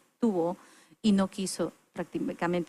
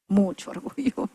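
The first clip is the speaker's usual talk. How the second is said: laughing confession; 6 dB louder than usual. Real, not acted. Confessing pride, building, laughing.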